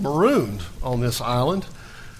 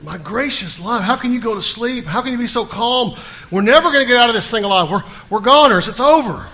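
higher, louder, rushed panic; 6 semitones higher, 5 dB louder than usual. Retold or imitated. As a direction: blurt it out in a frantic rush, sure you're doomed. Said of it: "quite in a state of panic".

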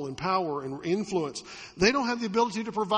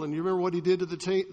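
ordinary delivery

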